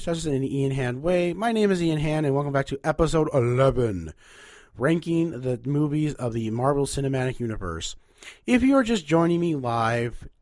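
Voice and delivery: upbeat radio host welcome; radio announcer. Acted. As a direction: open the show like a DJ. Radio show return intro.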